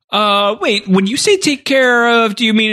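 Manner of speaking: high, wary mock alarm; nervous questioning. Separatist leaders questioning Palpatine, high nervous voice. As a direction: ask it like you just caught a threat.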